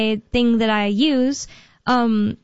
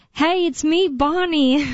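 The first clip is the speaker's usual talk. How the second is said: higher-pitched mock phone greeting; imitating a caller; 5 semitones higher, slower than usual. Scammer calls your parents posing as you, mock cheery greeting. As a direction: pretend to be the familiar voice on the line. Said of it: "maybe somebody calls your parents saying".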